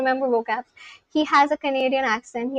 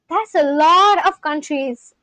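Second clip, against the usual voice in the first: slow, amazed stretch on LOT; gasp, then draw it out in wonder; real amazement; slower than usual. Real, not acted. Streamer reacting to a viewer's heritage from four countries, amazed.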